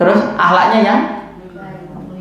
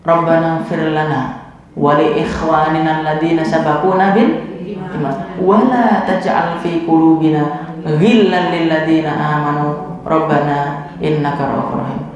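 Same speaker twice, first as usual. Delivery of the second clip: prayer recitation; 2 semitones lower than usual. Acted. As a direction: recite the supplication devoutly.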